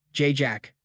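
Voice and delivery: stammering in shock. A narrator's reading. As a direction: trip over the name. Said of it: "one student stammered".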